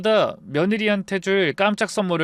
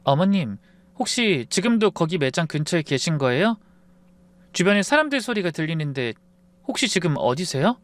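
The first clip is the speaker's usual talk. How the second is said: calm asking; 4 semitones higher than usual. Acted. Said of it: "아주 차분하게 물어보더라고요".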